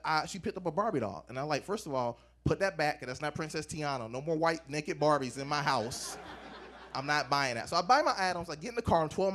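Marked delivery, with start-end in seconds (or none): 1.6-7.7 low-pitched, firm refusal; stern parent. Acted. Father to four-year-old holding a doll, stern refusal. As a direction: lay down the law in a lowered voice.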